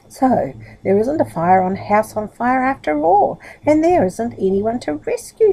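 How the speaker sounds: sadly. Acted. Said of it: "said poor Mister Middle sadly".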